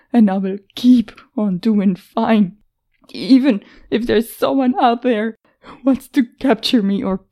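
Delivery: tearful, cracking protest; voice breaking. Acted. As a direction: fight back tears as it breaks. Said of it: "her voice broke".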